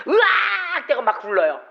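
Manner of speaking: a sudden high yelp of someone struck down; mock scream. Preacher mimicking a worshipper's scream as they fall. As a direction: cry out as if knocked flat by the power.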